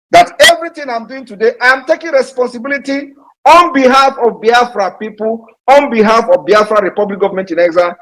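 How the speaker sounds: high-pitched, insistent declaration; exasperated shouting. Real, not acted. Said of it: "am I gonna shout this thing".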